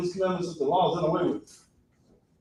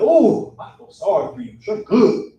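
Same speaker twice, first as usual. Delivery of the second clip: mock pity; 5 dB louder than usual. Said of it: "They're like".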